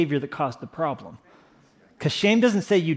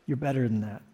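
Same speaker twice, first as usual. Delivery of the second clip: sincere; 5 semitones lower, 6 dB quieter, faster than usual. Shown as a demonstration. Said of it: "I don't say it with sarcasm".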